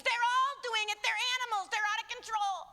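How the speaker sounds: lightly voiced sneering media line; mock the media's scaremongering. Speaker mocking the media's claim about kids, lightly sneering. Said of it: "the lie the media has told".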